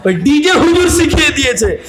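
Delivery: mock the DJ preacher; laughing sneer; laughing shout. Real, not acted.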